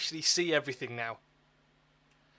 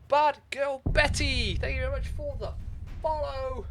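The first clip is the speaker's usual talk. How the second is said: excited thanks; 9 semitones higher, 5 dB louder than usual. Real, not acted. Thanking new followers, hyped.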